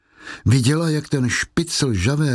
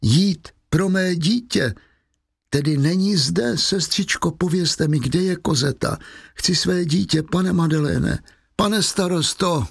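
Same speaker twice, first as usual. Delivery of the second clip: higher-pitched, agitated appeal; distraught pleading; 6 semitones higher than usual. A narrator's reading. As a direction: beg for your child, pitch raised. Distraught mother begs for her child.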